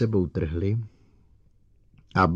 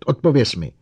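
loud, higher barked order; angry command; 6 semitones higher, 8 dB louder than usual. A narrator's reading. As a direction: force the answer out of him. Bogert bullying the robot.

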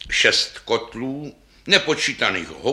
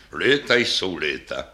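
put-on weary old bass; 5 semitones lower than usual. Old bass sighs about age.

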